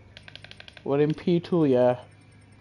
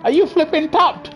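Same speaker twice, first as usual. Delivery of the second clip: incredulous; 6 semitones higher than usual. Real, not acted. Incredulous reply.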